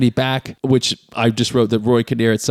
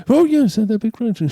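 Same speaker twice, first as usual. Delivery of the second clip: put-on high, fussy old man voice; hammed-up old jeweller; 10 semitones higher than usual. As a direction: chatter it like a fussy old craftsman. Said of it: "this old guy".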